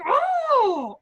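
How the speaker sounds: loud frustrated yelp; growled Oh. Retold or imitated. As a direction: let out a sharp cry. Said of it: "I wanna be like".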